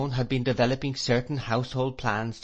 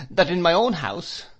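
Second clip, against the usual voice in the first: plaintive complaint; 7 semitones higher, 4 dB louder than usual. A narrator's reading. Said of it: "said my mother".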